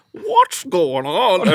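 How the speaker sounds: high, slow, drawn-out question; imitating Michael. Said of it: "he'd be like".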